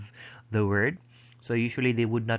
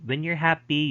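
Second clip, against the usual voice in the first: higher pitch, lifted on "happy"; raised happy pitch; 6 semitones higher, 4 dB louder than usual. Shown as a demonstration. Teacher illustrating happy emotion, pitch raised. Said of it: "your pitch would also go up".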